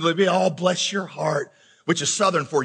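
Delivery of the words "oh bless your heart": slow, drawn-out mock sympathy; condescending. Little old lady pities a single man at a wedding, condescending. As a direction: patronize with syrupy slowness. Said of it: "so condescendingly".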